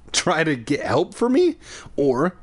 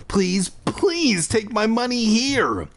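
higher, slow beg; slow pleading; 9 semitones higher, slower than usual. A narrator's reading. Boy pleading with the shopkeeper, slow and high. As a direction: drag out each please.

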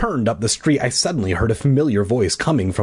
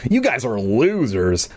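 cool dismissive. Acted. Cool Gary dismissing bullies.

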